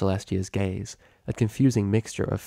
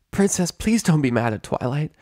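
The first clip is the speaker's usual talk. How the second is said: lightly voiced Rainbow; 7 semitones higher than usual. Rainbow pleading for Twilight.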